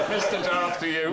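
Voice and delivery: put-on West Country accent. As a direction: play Vader as a farmer. Vader as yokel.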